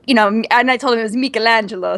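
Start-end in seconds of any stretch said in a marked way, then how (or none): 1.1-2.0 "Michelangelo" said the Italian way, with a "mee-kel" start; Italian-style pronunciation. Shown as a demonstration. Telling how the kids learned the name, "Michelangelo" pronounced Italian-style. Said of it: "they're all saying it like that".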